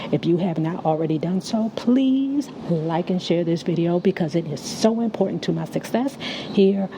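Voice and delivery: slightly slurred with a retainer in; wearing a retainer. Real, not acted. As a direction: talk around a retainer. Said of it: "I got my retainer in my mouth, so if it's slurring".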